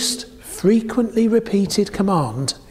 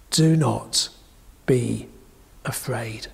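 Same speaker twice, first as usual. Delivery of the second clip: fading to a whisper; 8 semitones lower, 6 dB quieter, slower than usual. Shown as a demonstration. Preacher to congregation, softly fading into a whisper. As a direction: drop lower and softer until afraid is whispered. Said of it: "fades to whisper".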